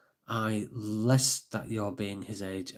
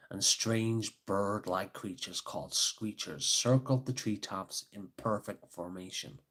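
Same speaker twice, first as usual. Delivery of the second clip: put-on American accent; 5 dB quieter than usual. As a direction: read it in an American storyteller's accent. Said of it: "when I did the American accent".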